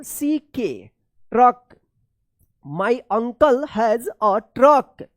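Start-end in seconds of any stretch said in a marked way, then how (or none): 2.6-5.0 The full cup is on the box read very slowly, word by word; slow reading aloud. Shown as a demonstration. Teacher reading a practice sentence to pupils, very slow. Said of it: "चलिए अब देखते हैं".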